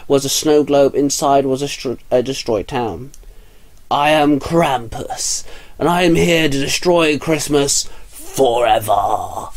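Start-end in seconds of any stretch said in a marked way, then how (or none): 3.9-9.5 slow, drawn-out monster proclamation; menacing Krampus. Acted. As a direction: declare it slowly, like a demon. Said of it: "Krampus called out".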